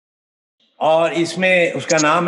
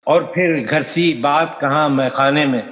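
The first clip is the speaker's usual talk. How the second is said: measured ghazal recital, phrase by phrase; poetry recitation. Acted. Poet presenting a ghazal to an appreciative audience, recited. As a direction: recite with deliberate cadence.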